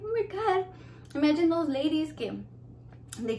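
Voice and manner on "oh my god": retold shock. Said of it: "And I'm like".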